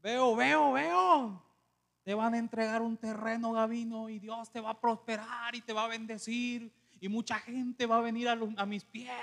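lightly mimicked preacher chanting a prophecy; prophesy like the visiting preacher; imitating prophetic pastor. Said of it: "vamos a tratar de asimilarlo".

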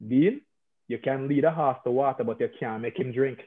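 dad's saying in a Jamaican accent. Shown as a demonstration. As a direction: let the Jamaican accent come right out. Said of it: "it would sound like this".

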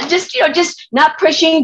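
light laugh running through the words, high; amused, half laughing at herself. Real, not acted. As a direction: giggle through it. Laughing at her own nudging.

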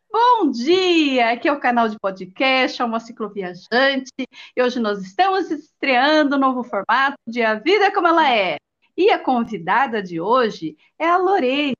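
upbeat announcer opening; podcast intro. Shown as a demonstration. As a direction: open the show like a host. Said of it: "Tipo assim". (abertura de podcast, tom de apresentadora)

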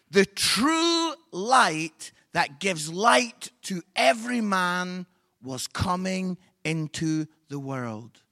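slow, measured reading; scripture reading. Acted. Reading John to the congregation, slow solemn reading. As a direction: read the verse with weight, slowly. Reads Bible verse.

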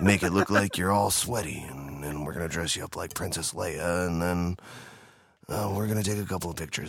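low, ominous creep voice with a laugh; ominous creepy voice. Retold or imitated. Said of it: "It's a very ominous voice".

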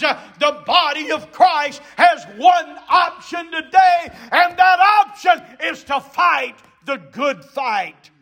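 emphatic shouted preaching with punched key words; full-force preaching. Real, not acted. Preacher urging the church to fight, full-force preaching. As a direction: drive the charge home to the congregation.

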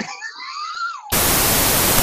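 a high, loud burst of laughter; shrieking laugh. Real, not acted. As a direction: crack up with a squeal. Laughing at the cat in the video.

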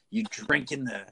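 slow, drawn-out devil's juice; preachy scold. Retold or imitated.

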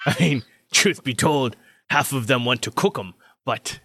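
lightly voiced gossiping craftsman; chatty armorer character. Armorer joking about cooking the birdman, lightly voiced. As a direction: confide with sly amusement. Game master voices the surgeon.

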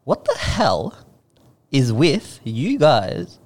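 drawn out with deliberate pauses; slow exasperated address. Real, not acted. Calling out women over their comments, slow and exasperated. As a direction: space it out in exasperation.

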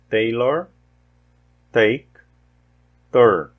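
teacher modelling the T in "tomato", "table", "take"; American English T words. Shown as a demonstration. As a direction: model each word one by one for learners. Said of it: "Então nós temos aqui, ó".

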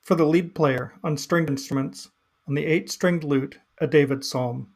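measured, earnest scripture reading; solemn psalm reading. Acted. Reading the psalm to listeners, solemn and measured.

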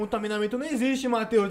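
imitating the correcting dad. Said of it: "Ele falou assim".

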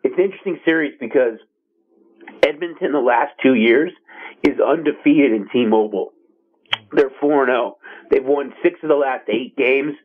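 hoarse, fading voice; straining through a sore throat; losing voice. Real, not acted. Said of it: "I'm losing my voice a bit".

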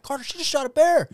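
very high, loud, excited call; freaking out. Retold or imitated. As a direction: shout the news to your friend, reenacting it. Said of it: "And I'm, like, freaking out".

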